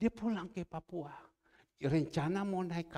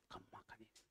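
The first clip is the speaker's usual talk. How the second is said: gentle offer; 20 dB quieter, much faster than usual. Retold or imitated.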